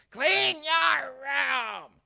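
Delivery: high, drawn-out mom yell. Acted. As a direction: yell it like a fed-up mother, stretching every word. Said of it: "your mom yells at you".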